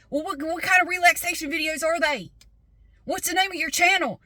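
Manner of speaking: mock an over-curious small-talker; nosy caller. Siding guy prying into customer's YouTube work, high mock voice.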